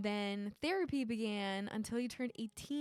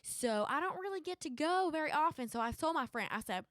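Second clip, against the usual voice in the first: put-on Southern accent. Game player telling a beach trip story on request, Southern accent. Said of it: "Southern accent".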